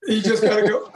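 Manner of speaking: said through a laugh; amused, laughing repeat of gotta go. Real, not acted. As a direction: chuckle while repeating it. Repeats line laughing after joke.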